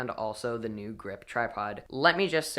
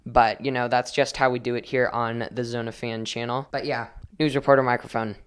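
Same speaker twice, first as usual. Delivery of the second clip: roomy bathroom echo; recorded in a tiled bathroom; 5 dB louder than usual. Real, not acted. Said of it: "Also, sorry about the echo".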